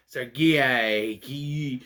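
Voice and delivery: "Sergei" drawn out as "sair-gee-eye"; guessed pronunciation. Shown as a demonstration. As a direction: sound out "Sergei" wrongly with a long "gee". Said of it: "tried to figure out how to pronounce".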